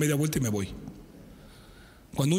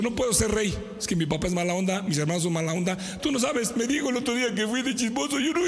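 mock whiny King David, pitched up; 4 semitones higher than usual. Preacher imagining David whining he can't be king. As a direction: whine out excuses like a sulky boy. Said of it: "Imagínate que David hubiera dicho".

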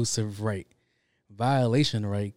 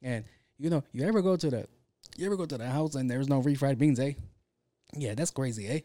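a light Mexican Canadian lilt, ending on a sing-song eh; a hint of a Mexican Canadian comic's voice with tag-on eh; Paul Rodriguez impression; 3 semitones higher than usual. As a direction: casually imitate a favorite comedian's Mexican Canadian accent. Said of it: "Paul Rodriguez talks a little like this".

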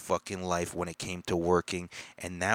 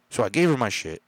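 shouting; 2 semitones higher, 6 dB louder, faster than usual. Real, not acted. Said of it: "Sorry, I'm screaming now".

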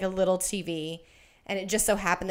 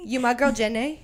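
put-on higher-pitched Forrest Gump line, Southern accent; 4 semitones higher than usual. Quoting Forrest Gump to a friend, mock Southern accent. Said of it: "the way you do that accent".

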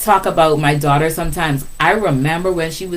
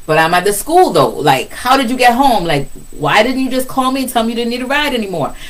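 higher, baffled questioning; exasperated mom; 8 semitones higher, 3 dB louder than usual. Retold or imitated. Mother questioning daughter who went home alone, exasperated high voice. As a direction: let the confusion pour out at her daughter. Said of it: "And I'm like".

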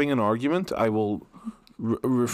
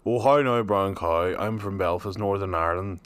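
put-on homely Belfast accent; 3 semitones lower than usual. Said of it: "their nice homely accent".

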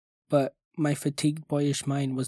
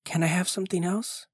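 begging; 5 semitones higher than usual. A narrator's reading. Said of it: "I begged".

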